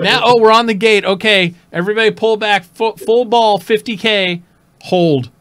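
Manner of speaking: loud barked fleet orders; fleet commander orders. Retold or imitated. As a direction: call out the fleet orders loudly. Imitating an Eve fleet commander.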